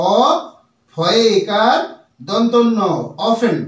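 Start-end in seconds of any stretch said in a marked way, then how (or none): 3.3-3.6 careful, falling "o-fen" for অফেন; correct pronunciation. Shown as a demonstration. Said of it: "আমার উচ্চারণটা কেমন আসবে".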